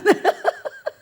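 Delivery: very high squeal of laughter; a piercing laughing shriek; a high-pitched laughing squeal; shrill laugh. Real, not acted. Laughs mid story.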